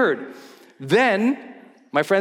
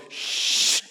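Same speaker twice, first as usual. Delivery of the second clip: whispered shush; 4 dB quieter than usual. Retold or imitated. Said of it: "Jesse, goes".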